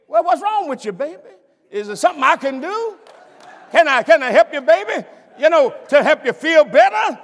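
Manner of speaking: put-on caring husband coaxing his baby; tender concern. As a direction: soothe her like a loving husband. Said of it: "Agape says".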